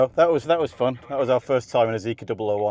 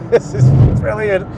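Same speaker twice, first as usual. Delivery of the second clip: loud, thrilled exclamation; excited; 8 semitones higher, 8 dB louder than usual. Real, not acted. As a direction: shout it with real glee. Thrilled on track.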